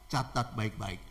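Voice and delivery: low, soft solemn reminder; hushed emphasis. Real, not acted. Preacher telling listeners to note the moral, hushed. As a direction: drop down and let the moral sink in. Preacher drives home the lesson.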